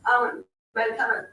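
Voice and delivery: careful speech with a sore jaw. Real, not acted. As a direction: talk gingerly, jaw still sore. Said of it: "I had my wisdom teeth removed yesterday".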